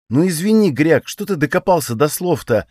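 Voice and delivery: a high, whiny complaint; annoyed high whine; whining. Acted. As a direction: whine it like a fed-up friend. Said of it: "проныл Танис".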